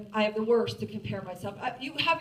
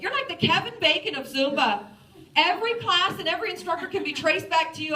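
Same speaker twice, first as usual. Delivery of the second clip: mock excited fan; 5 semitones higher, 7 dB louder than usual. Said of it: "They're like".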